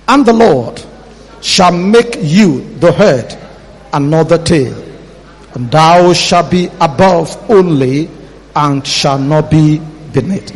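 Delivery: slow measured Bible reading; scripture reading. Shown as a demonstration. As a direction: read the verse slowly. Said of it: "let's read verse thirteen".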